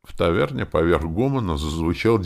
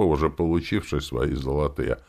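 ordinary delivery

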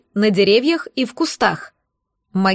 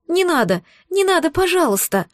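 higher, pleading little voice; plaintive plea; 6 semitones higher than usual. A narrator's reading. Alice pretends to beg the bandit, higher and plaintive. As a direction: beg them to stop, playing the victim. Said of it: "жалобно сказала Элис".

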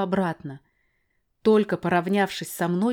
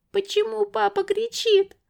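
put-on high child's voice, worried; small girl's question; 4 dB louder than usual. Girl asking the narrator, high and anxious. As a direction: ask it as a scared little girl. Girl asks about shouting.

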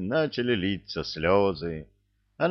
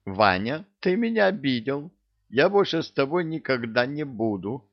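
high, sulky female voice; hurt woman; 5 semitones higher than usual. Acted. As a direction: complain like an offended wife.

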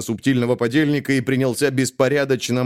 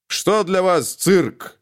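snapping back; 7 semitones higher, much slower than usual. A narrator's reading. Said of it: "окрысился".

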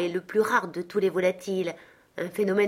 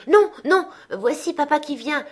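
put-on much higher, loud children's cry; children shouting; 8 semitones higher, 6 dB louder than usual. A narrator's reading. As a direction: yell it like excited kids. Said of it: "crièrent les deux petits Cratchit". (cri d'enfants excités, très aigu et fort)

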